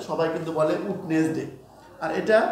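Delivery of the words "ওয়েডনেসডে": "ওয়েডনেসডে" said as "oot-nes-de"; Bengali learner pronunciation. Shown as a demonstration. Teacher shows how Bengali students say it, "ওয়েডনেসডে" as "oot-nes-de". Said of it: "যারা বাঙালি student আছে".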